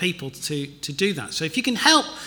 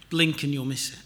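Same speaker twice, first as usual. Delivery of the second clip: soft repeat; 3 semitones lower, 6 dB quieter than usual. Shown as a demonstration.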